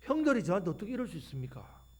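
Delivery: Joseph pleading on the phone to his pastor, aggrieved; a lightly voiced wronged young man calling his pastor; complaining Joseph. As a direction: pour out the unfair treatment, voice rising. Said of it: "요셉이 목사님한테 전화합니다".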